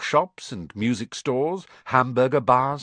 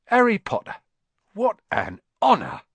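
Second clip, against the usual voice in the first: much higher, louder cry of joy; overjoyed barman; 9 semitones higher, 4 dB louder than usual. Acted. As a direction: burst out as if meeting a legend. Barman overjoyed meeting Harry.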